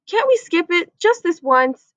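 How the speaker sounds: high, loud pleading on please; begging. Acted. Boy begging his mom to skip the ear check. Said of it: "Andrew begged".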